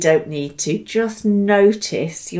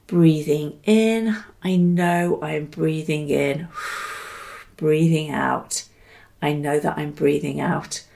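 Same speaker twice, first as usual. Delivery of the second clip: silent mantra, softly spoken; 3 semitones lower than usual. Shown as a demonstration. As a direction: let the words drift out with the breath. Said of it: "experiment with saying silently to yourself".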